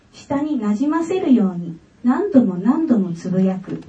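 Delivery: a calm read-aloud of her own essay. Acted. (自作の作文を朗読する)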